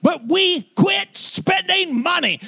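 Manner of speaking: high, slow shouted punchline; grandfather yelling. Retold or imitated. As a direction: bark it out like a stern granddad. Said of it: "and yelled at me".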